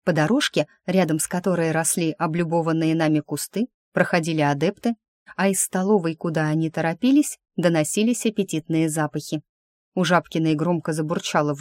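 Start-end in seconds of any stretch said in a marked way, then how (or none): none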